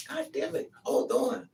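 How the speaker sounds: a sharp high curse; high yelp of pain. Real, not acted. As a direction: squeak out in sudden discomfort. Sudden pain reaction.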